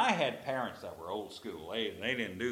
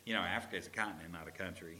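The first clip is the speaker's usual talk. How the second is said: put-on smart-aleck kid; 5 semitones lower, 7 dB quieter, faster than usual. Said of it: "I'd go".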